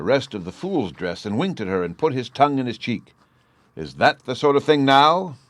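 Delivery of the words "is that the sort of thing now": higher, louder demand. A narrator's reading. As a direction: insist on an answer. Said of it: "he demanded".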